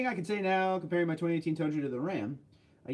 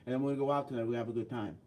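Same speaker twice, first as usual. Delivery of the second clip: New York accent; 2 semitones lower, faster than usual. Shown as a demonstration. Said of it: "that's your New York".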